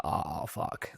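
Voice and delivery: under the breath, voiceless; a dismayed whisper over the wrong steaks; whispered oh fuck. Retold or imitated. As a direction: hiss it to yourself in dismay. Realising the steaks are wrong.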